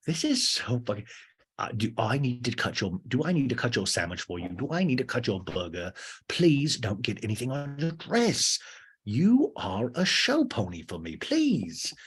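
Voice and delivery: hammed-up fussy DJ; drawn-out pleading that ends on a high squeal; James. DJ begging his girlfriend to protect her dress, mock exasperated. Plays James fussing over burger.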